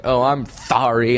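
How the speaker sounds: mock apology with a lisped S; sarcastic. Imagined comeback to a rude stranger, sarcastic. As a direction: say sorry sarcastically, tongue in the way. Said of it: "answer sarcastically".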